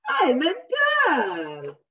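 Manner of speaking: mock indignant child; insistent girl.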